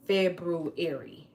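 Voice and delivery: February said full, ending on a fall. Shown as a demonstration. Demoing the word to viewers, firm fall. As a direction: pronounce February with the r clearly. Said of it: "That's how you say it".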